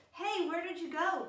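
high, loud call across the garden. Acted. God calling out for Adam and Eve in the garden, high and loud. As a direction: sing out to find someone hidden. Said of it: "called God".

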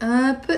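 "app" begun with a glottal stop. Shown as a demonstration. Teacher showing students the pause, glottal stop on "app". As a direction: start "app" on a caught, closed throat. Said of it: "the pause, the glottal stop".

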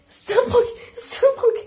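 laughing, pleading it's a joke; half laugh, half plea; nervous laughing. Real, not acted.

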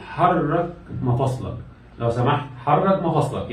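measured, drawn-out doctor's command; slow patient instruction. Acted. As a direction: instruct a patient slowly and clearly.

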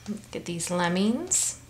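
hushed, secretive listing; soft whispered aside. Real, not acted. Naming the animals to the child.

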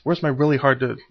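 ordinary talk, nothing marked

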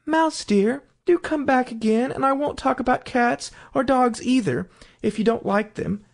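high, coaxing call; gentle calling. A narrator's reading. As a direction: plead sweetly for the mouse's return. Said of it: "she called softly after it".

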